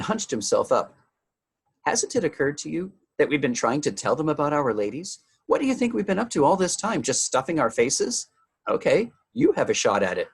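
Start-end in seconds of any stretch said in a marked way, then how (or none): 1.9-10.3 indignant retort. Acted. Calvin snaps back at Meg.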